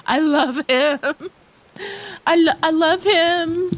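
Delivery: choked up. Real, not acted. Gushing over beloved game character.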